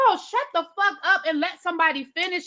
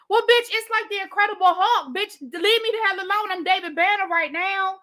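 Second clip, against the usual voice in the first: higher-pitched, sassy threat; mock angry warning; 5 semitones higher than usual. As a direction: warn them off in playful exasperation. Acts out a Hulk warning.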